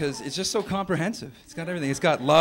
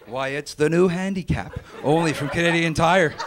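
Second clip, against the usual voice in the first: mock pitchman; 4 dB louder than usual. Showing Bob's friend a new product, mock pitchman delivery. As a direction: sell it like a corny TV ad.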